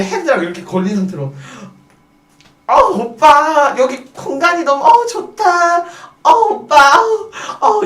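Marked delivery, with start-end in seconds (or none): 2.7-7.8 very high, stretched mock protest; hammed-up hostess squeal. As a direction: squeal like a hostess caught in a headlock. Hostess squeezed in customer's headlock.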